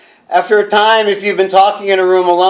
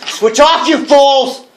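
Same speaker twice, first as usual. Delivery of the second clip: manic yell; 6 semitones higher, slower than usual. Acted. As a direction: scream it at them like a madman. Madman yelling at listeners.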